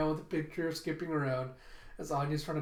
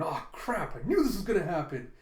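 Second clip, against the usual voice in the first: mild, hurried mock panic; freaking out; 3 dB louder than usual. Boy learning he's at her table, mildly freaking out. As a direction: rush it out in dismay. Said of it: "Damien's freaking out".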